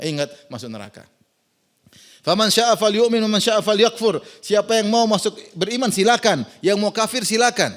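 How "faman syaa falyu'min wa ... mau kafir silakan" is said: louder, steady warning to the crowd; forceful preaching. Real, not acted. Closing warning, preaching hard. (berkhotbah dengan keras dan tegas)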